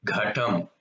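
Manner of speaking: "Ghatam" with breath on the Gh; aspirated gha. Shown as a demonstration. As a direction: push air out on the first sound of "Ghatam". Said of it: "the gha, that sound must come".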